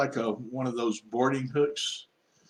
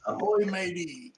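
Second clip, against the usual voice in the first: high, drawn-out pirate greeting; playful sailor's hail; 7 semitones higher, slower than usual. Pretend. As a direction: hail a passing boat in mock sailor style. Calling out to the unknown boat.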